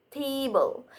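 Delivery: table with a drawn-out first syllable; stress on first syllable. Shown as a demonstration. Presenter showing word stress, table stressed on its first syllable. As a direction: lean on the TA of table. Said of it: "the first syllable is stress".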